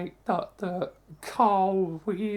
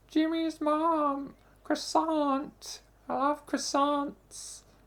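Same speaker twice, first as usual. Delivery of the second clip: put-on cartoon voice, high-pitched, slow and drawn-out; 8 semitones higher than usual. Trying out cartoon voice impressions: Carl Wheezer voice. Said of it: "if I was to do like Carl Weezer, it's like".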